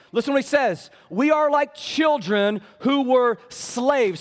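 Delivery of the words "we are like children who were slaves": slow, emphatic preached shout; preaching shout. Real, not acted. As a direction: proclaim it slowly at full force. Preacher reading Paul aloud.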